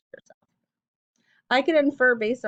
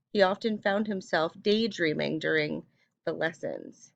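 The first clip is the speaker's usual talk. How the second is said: expressive read-aloud voice; story reading. Acted. Reads passage aloud.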